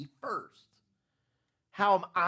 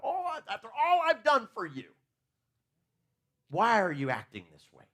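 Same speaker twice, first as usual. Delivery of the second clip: mock self-pity; 5 semitones higher, 4 dB louder than usual. Mocking a self-pitying complaint.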